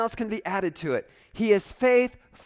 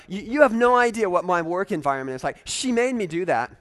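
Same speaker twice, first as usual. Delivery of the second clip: defensive blaming, louder and quick; mock excuse; 5 dB louder, faster than usual. A churchgoer mock-blaming his boss, defensive. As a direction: whine that it's someone else's fault.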